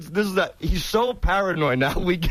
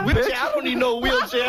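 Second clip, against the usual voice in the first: high, laughing protest; laughing mock protest; laughing indignation; 5 semitones higher than usual. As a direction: laugh through the outrage. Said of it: "He goes".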